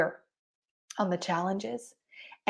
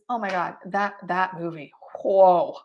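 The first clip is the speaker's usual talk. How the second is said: genuine awe. Shown as a demonstration. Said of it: "You know what you say is".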